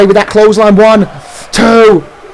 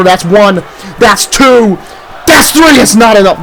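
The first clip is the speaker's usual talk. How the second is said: referee-count hype; building count; slower than usual. Acted. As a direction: count it up and explode. Pin count building to kickout.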